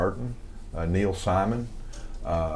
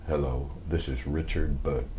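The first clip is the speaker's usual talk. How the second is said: Richard Burton impression; 6 semitones lower, 5 dB quieter than usual. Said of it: "and it was".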